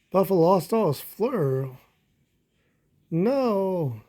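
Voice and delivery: lively storybook read-aloud; animated children's story narration. Acted. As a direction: read it like a bedtime picture book. Reading picture book aloud.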